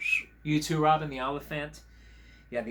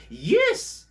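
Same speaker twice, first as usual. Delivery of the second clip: very high, loud English puppet voice; English accent; 8 dB louder than usual. Acted. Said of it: "You have a bit of an accent".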